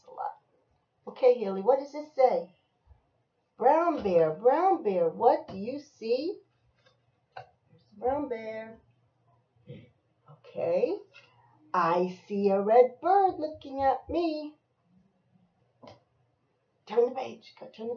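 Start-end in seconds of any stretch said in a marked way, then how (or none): 3.6-6.4 singsong picture-book refrain, lifting on the question; chanted refrain with a rising question; reading to a child. Acted. 11.7-14.5 lilting picture-book line, pitched up; singsong storybook answer; reading to a child. Acted.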